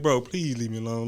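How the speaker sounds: pleading softly. Retold or imitated. Telling how he begged his friend to stop, soft plea. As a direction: beg gently like a little kid. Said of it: "I'm like".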